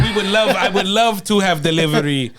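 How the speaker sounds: quoting through laughter; laughing imitation. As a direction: imitate him while laughing. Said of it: "Yes, he said".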